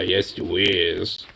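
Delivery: slow cooing praise. Real, not acted. Cooing to the dog.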